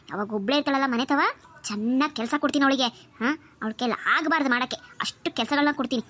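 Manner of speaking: aunt reassuring her niece, a hint of scheming. Aunt voice plotting.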